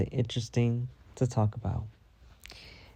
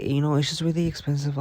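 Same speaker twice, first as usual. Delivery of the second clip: imitating coworker; 5 semitones higher than usual. Imitating Tina.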